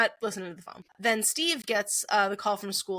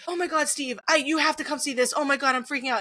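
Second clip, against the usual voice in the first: frantic; 5 semitones higher, faster than usual. Retold or imitated. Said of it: "She's just like".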